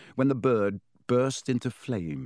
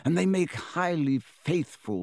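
put-on fond, admiring old headmaster; high, slow kindly wizard; 6 semitones higher than usual. Dumbledore voiced.

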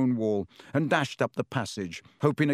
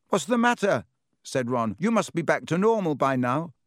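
put-on higher, puzzled boy calling; Ron voice; 4 semitones higher than usual. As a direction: ask through the door, confused.

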